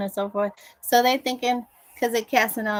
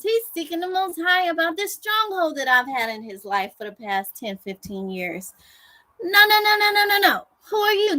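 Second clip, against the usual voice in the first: the enemy taunting; 6 semitones higher than usual. Retold or imitated. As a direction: sneer at them as the enemy. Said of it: "And he's like".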